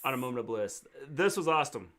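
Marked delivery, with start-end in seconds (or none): 1.5-1.9 "awesome" said as "awstem", with a t inside; mispronounced word. Shown as a demonstration. Co-host tripping on the word, "awesome" with an added t. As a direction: slip a t into "awesome": "aw-stem". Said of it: "Not awesome".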